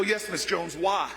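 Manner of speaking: low, deferential answer; meek reply. Retold or imitated. Young law graduate patiently pressing the elder, low and deferential. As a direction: answer her like a patient, respectful young man.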